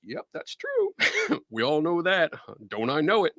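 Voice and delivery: lightly voiced teasing friend; a hint of playful sass; teasing cohost. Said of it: "she'll be over going".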